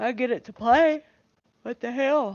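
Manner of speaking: words pushed through a yawn. Host talking to listeners, yawning. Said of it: "Excuse me, I'm yawning".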